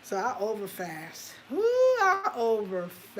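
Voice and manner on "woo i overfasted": sob. Real, not acted. Painful memory overwhelms her.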